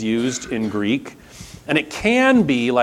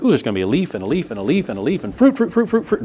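imitating naive excitement; 2 semitones higher, much faster than usual. Gardener picturing fruit on every bud, mock excited. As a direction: gush like a hopeful new gardener. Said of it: "and you think".

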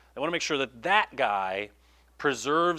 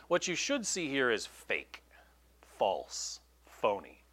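hushed unvoiced aside; whisper; 3 semitones lower, 4 dB quieter, slower than usual. Real, not acted. Preacher whispering the point to the congregation. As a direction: lean in and whisper it.

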